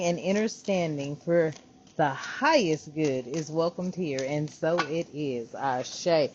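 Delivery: measured prayerful blessing; spoken prayer. Acted. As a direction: pray it with calm reverence. Opening prayer invocation.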